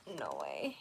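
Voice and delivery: low voice. Real, not acted. Repeating the words in disbelief.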